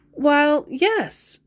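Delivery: mock startled answer. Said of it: "I informed him".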